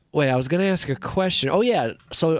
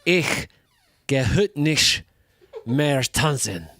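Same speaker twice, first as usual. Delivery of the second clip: German demo; slower than usual. Shown as a demonstration. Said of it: "It sounds like this".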